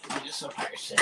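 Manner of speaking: whispered echo, no voice; whispered "I'm just a person", voiceless. Real, not acted. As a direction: breathe it out as a whisper to yourself. Echo of previous line.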